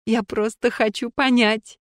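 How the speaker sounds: сквозь всхлип, медленно; всхлипнуть, еле выговаривая; всхлипывая. Acted. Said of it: "всхлипнула Снежана". (Снежана всхлипывает, объясняя Гуле, медленно)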